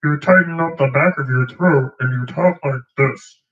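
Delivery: high squeezed froggy voice; tight Kermit-like voice. Shown as a demonstration. Explaining throat tightening, a lightly Kermit-like voice. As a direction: tighten the back of the throat and talk. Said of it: "Kermit the Frog-like voice".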